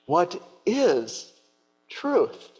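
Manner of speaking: smirk. Acted. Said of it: "with maybe a little bit of a smirk".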